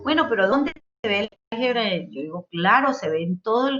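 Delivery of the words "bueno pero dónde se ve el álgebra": imitating a doubtful student. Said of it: "dirán".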